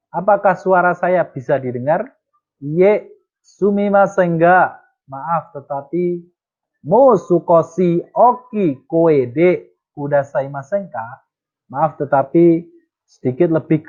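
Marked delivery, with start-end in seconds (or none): 2.6-11.1 slow, careful Japanese line, higher; slow model reading. Shown as a demonstration. Teacher reads the dialogue reply slowly to the class.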